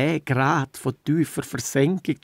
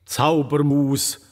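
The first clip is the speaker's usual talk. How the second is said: solemn cosmic voice; slower than usual. Pretend. Worm answers as the cosmos.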